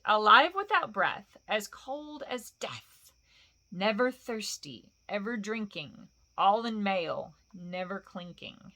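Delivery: slow, fading to a hush; sly riddle chant; creature riddle. Acted. Gollum poses the fish riddle, slow sly.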